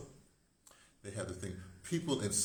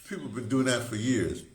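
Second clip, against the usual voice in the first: mock heckler; 4 semitones higher, 10 dB louder than usual. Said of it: "you might even say".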